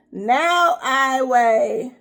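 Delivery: high, cracking voice with a cry in it; teasing the big reveal, voice breaking; excited, near tears. Real, not acted. Announcing weight loss, emotional.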